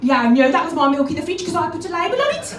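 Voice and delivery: loud, irate Brummie; angry Birmingham accent. Acted. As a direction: let rip in broad angry Birmingham. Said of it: "I do have the accent when I get really angry".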